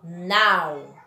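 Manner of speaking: "nau" set apart and drawn out; single out "nau" as the strong syllable; isolated, lengthened "nau"; stressed syllable. Shown as a demonstration. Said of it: "maior intensidade na sílaba".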